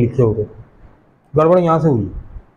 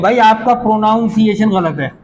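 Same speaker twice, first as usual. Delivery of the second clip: retold correction; 6 semitones higher than usual. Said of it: "अक्सर लोग टोकते हैं".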